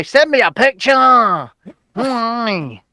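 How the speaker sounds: imitating a pest, drawn out with falling ends; mock nagging, words stretched out; pestering demand. Friend pestering the host for a photo all day, mock pestering. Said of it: "he's been bugging me all day".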